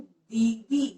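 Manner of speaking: दीदी with both ई vowels held long; stress on दीदी. Shown as a demonstration. Teacher showing the long vowel, दीदी said with stress. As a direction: lean slowly on the vowels of दीदी. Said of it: "मैंने जोर दिया इस पे".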